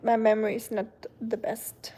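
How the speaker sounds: sheepish whisper; whispered aside. Real, not acted. Apologising to a viewer for her poor memory, whispered. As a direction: drop to a whisper, half to yourself. Apologising for forgetting someone's country.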